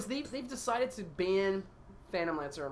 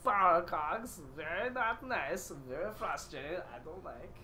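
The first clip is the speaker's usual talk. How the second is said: Borat voice. Pretend. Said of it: "can you do Borat?".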